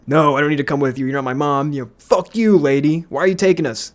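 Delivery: imitated indignant teenage protest; mouthy, offended kid being marched off. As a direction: push back at the manager, voice rising on the curse. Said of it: "he was indignant from the start".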